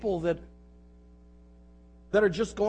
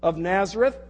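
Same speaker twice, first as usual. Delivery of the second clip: demon's loud, raised challenge in a Bible reading; higher, louder dramatized outcry; crying out; 4 semitones higher, 6 dB louder than usual. A narrator's reading. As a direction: cry it out as the possessed man. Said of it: "cried out at the top of his voice".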